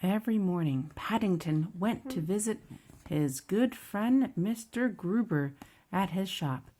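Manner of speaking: measured, lively picture-book narration; children's story reading. A narrator's reading. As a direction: read it slowly to a small child.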